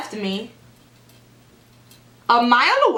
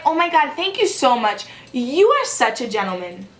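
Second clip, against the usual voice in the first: fake-sweet gushing gratitude; mock grateful, pitched a bit up; sarcastic thanks. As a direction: oversell the thank-you so it drips sarcasm. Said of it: "obviously I'm being sarcastic".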